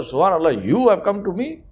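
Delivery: mildly acted amazement at being visited; humbly incredulous, voice lifting; shocked disbelief. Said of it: "this cobbler was shocked".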